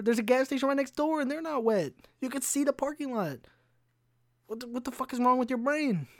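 ranting high and squeaky at a clueless customer; exasperated rant. Retold or imitated. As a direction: go shrill with incredulous outrage.

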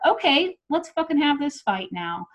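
high, heated challenge to fight; retold fighting challenge. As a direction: act out squaring up for an argument.

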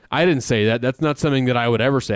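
rattled-off mock denial, fast. Mocking a coach's denial to his cohost, rushed. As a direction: hurry through the denial like a guilty liar. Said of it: "Then he comes out and says".

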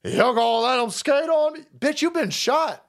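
high-pitched retold yell at the cop; woman yelling at the cop, retold; imitating her yelling. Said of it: "she starts yelling at the cop".

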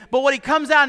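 ordinary talk

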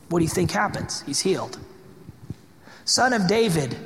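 normal talking voice

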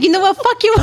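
high-pitched comic outburst; mock exasperation. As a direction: imitate a customer losing patience. Retelling customer's exasperated outburst.

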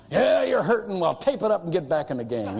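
put-on a gruff coach telling a hurt kid to play on; football coach. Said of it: "I am such a football coach".

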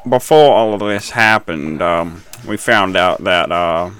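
slow, lightly hammed-up American accent; mock American interviewee accent. Host mimicking an American professor on the news, mock accent. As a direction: imitate an American commentator, dragging the words. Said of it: "That's literally how she was talking".

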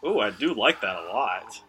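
talking through a cough; words broken by coughing; coughing fit. Real, not acted. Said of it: "Sorry, he's coughing right now".

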